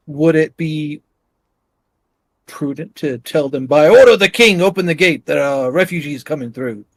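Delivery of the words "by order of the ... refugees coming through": a hint of a commanding king; king impression. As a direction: proclaim it lightly as the king. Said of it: "I can do a pretty convincing king impression".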